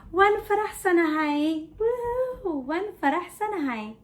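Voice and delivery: sudden gleeful burst with a high whoop; happy. Shown as a demonstration. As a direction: switch into playful celebration. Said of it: "I'm happy".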